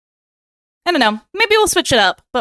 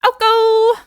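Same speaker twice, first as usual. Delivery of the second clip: Alco called high and loud, O stretched long; savoring the O sound in the nickname; drawn-out O; 10 semitones higher, 3 dB louder than usual. Shown as a demonstration. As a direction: lean into the O of Alco. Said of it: "I like saying the O".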